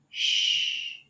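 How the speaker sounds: Sh with rounded lips; long Sh, lips in a circle; hushing Sh; sh sound. Shown as a demonstration. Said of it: "But when you say sh".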